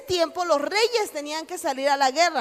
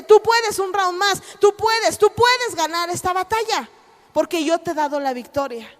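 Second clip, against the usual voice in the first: rallying cry; 3 semitones higher, 3 dB louder than usual. Acted. God cheering the fallen fighter, loud rallying. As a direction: pump them up with each tú puedes. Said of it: "Dios te dice".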